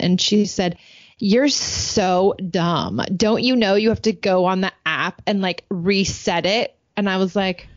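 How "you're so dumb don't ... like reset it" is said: imitating a contemptuous daughter, drawn-out opening; mock teen scorn for a clueless parent; scornful teen. Daughter berates mom over the Alexa app, scornful.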